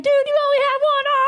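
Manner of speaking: fast, loud and high "Dude, you only have one arm!"; exasperated outburst. Retold or imitated. Comic shouting at the complaining one-armed man, fast and loud. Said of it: "And I was like".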